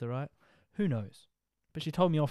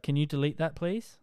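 mock Karen demand; 3 semitones higher, 3 dB louder than usual. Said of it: "real Karen aggressiveness".

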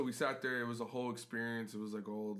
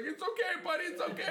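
half-laughing reassurance; 4 dB louder than usual. Retold or imitated. Retelling comforting a stranger.

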